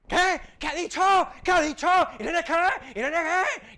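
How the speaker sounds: preguntas mucho más agudas y fuertes, desconcierto; alumnos confundidos. Retold or imitated. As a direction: imita a la gente que no se entera. Alumnos no oyen el nombre. (alumnos preguntando agitados qué nombre dijo)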